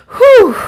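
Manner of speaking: big, loud whew; heavy sigh of exasperation; loud exhaled whew. Real, not acted. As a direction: blow out a hard whew. Relieving feeling after bad experience.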